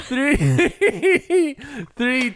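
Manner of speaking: giggling through the count; laughing countdown. Real, not acted. Counting down to wife while laughing. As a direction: laugh out the numbers.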